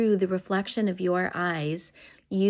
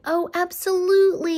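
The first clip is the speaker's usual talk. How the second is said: much higher, louder gushing approval; enthusiastic yes; 11 semitones higher, 6 dB louder than usual. Shown as a demonstration. Parent rewarding child who spoke without whining, gushing. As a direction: reward them with a delighted squeal of yes. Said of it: "And then when they do".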